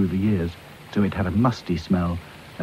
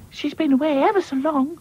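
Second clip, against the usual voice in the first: 1 anxiously. Acted. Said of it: "said Lucy anxiously".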